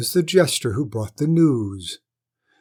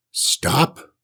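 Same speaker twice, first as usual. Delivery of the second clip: shouting; 5 dB louder than usual. Acted. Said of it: "shouted the lord".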